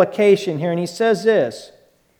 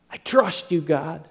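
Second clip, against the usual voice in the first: much softer, surrendering words to God; hushed prayer; 2 semitones lower, 11 dB quieter than usual. Retold or imitated. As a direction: pray it barely above a whisper.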